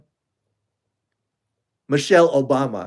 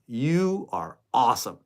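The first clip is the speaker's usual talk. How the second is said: softer mirror pep talk to yourself; quiet self-talk; 3 semitones lower, 6 dB quieter than usual. Retold or imitated. Vlogger shows gentle mirror affirmation, softer. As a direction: say it softly to your reflection. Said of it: "looking in the mirror every day in the morning saying".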